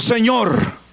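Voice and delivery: slow plea sinking very low; awed surrender, voice falling away; trembling submission. Acted. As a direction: pause between phrases, dropping to a low, humbled murmur. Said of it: "Y él temblando dice que le dijo".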